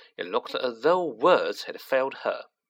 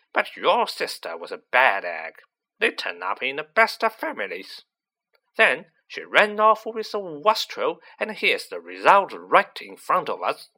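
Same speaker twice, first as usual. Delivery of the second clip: lightly voiced scornful aunt, louder on the insults; 2 semitones higher, 4 dB louder than usual. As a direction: disparage the boy as a haughty aunt. Voices Aunt March insulting the family.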